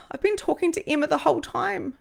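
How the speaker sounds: high, emotional confession after a sigh; really emotional. Real, not acted. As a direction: let real emotion lift the voice high. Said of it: "so it's really emotional".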